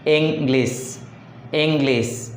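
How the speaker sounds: "English" with extra force on ENG; ENG-lish, first syllable stressed. Shown as a demonstration. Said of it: "first syllable".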